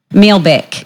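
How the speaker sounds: sample of a New Zealand accent. Shown as a demonstration. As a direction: try a short New Zealand accent demo. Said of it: "a New Zealand or Australian accent".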